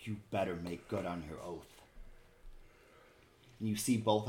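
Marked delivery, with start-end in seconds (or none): 0.0-1.7 low, softened warning; a quiet threat for one listener only; hushed in-character demand; whispered warning. Acted. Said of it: "She is whispering to you".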